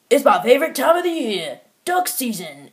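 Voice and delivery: loud, high-pitched mocking impression; hammed-up cartoon hero, pushed high and loud; Green Arrow. Reviewer mimicking a hero's voice from the movie, loud silly impression. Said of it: "His voice is like".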